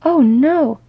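loud, high wail of dismay; whimper. Acted. Keeley dismayed between the two staring at each other, whimpering. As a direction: cry out in whimpering dread. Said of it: "and then he whimpered".

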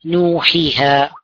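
نوحيها stretched very slowly, each sound held; slow drawn-out word. Shown as a demonstration. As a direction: spell out نوحيها slowly syllable by syllable. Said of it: "جمعت في قول الله عز وجل". (نطق بطيء ممدود لكلمة نوحيها)

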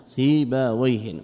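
سيبويه stretched slowly with a falling end; slow deliberate سيبويه; slow, drawn out. Shown as a demonstration. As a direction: draw out سيبويه syllable by syllable. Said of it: "يعتبر نكرة".

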